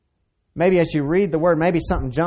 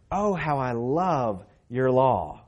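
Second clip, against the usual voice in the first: slow fervent David; slower than usual. Acted. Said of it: "And he says".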